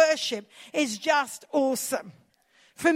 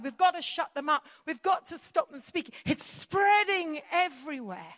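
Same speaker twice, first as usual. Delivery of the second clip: mock panicked leaders. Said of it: "these leaders were terrified".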